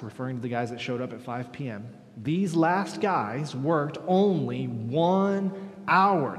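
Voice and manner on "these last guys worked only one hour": grumbling complaint. Retold or imitated. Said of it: "they grumbled at the master".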